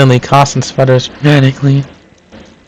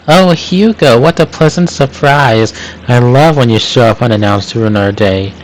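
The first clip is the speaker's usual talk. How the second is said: sarcastic. Acted. Linda greets inspector sarcastically.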